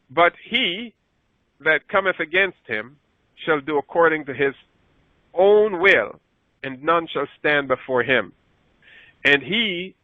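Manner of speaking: solemn Bible reading voice; scripture reading. Acted. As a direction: read the verse out like Scripture. Reads verse sixteen aloud.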